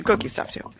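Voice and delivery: whispered aside; breathy secret whisper. Real, not acted. Playful aside about cookies.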